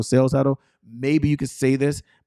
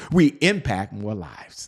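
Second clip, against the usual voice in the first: slow, lower, settled final declaration; affirmation close; 4 semitones lower, slower than usual. Shown as a demonstration. Coach closes the repeat-after-me belief statement, slow firm landing. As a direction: bring the pitch down and land it slowly. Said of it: "So you repeat after me".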